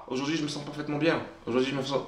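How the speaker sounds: soft, fast and half-hearted, without belief; a flat, quiet mutter from someone who doesn't believe it; unconvinced. Shown as a demonstration. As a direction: mumble it like you don't believe a word. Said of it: "et tu vas pas y croire".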